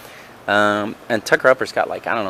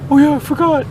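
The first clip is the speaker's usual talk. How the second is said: much higher mock airy voice; A J's voice; 5 dB louder than usual. Mocking A J for forgetting, high silly voice. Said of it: "He's like".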